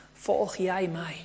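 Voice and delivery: slow, calm voice of God, only lightly set apart; God's voice, lightly done. Acted. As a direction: ask it slowly and gently as God calling Samuel. Preacher voices God speaking to Samuel. (rustige, langzame stem van God)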